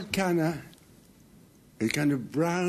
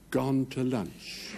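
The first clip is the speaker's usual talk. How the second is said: slow notice read; much slower than usual. Retold or imitated. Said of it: "a little notice on the door".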